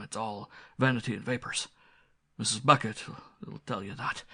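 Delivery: a hint of a rustic old butler defending himself; mildly voiced country butler. Old butler answers squire.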